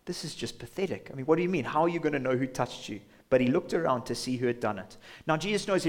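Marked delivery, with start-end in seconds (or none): 0.0-3.0 mild mocking. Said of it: "they're just sort of just mocking him".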